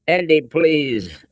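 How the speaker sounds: high, drawn-out frightened plea; pleading. A narrator's reading. Captive woman begs Andy for help, pleading. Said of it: "Elsa pleaded".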